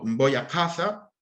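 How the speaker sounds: "casa" with a heavy emphatic k, slow; emphatic k demo. Shown as a demonstration. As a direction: say "Voy a casa" slowly with a throaty emphatic k. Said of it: "Si yo te digo".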